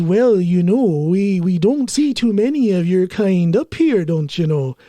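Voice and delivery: slow, lightly put-on Minnesota accent; a hint of a folksy Minnesota accent. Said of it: "with that Minnesota, uh, accent".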